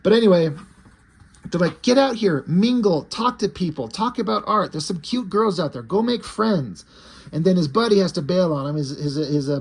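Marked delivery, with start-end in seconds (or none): 1.8-6.8 higher, eager urging; pushy encouragement. Retold or imitated. Friends urging David at the party, eager and higher. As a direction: egg him on to go mingle. Friends pushing him to mingle.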